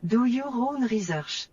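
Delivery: English with French-coloured r and vowels; lilting French accent. Real, not acted. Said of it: "She said with a French accent".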